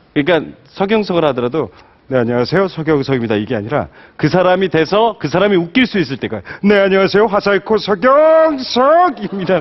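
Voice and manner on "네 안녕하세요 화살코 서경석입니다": forceful, overdone comic voice, strong, exaggerated and drawn out. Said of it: "이런 식으로 강하게".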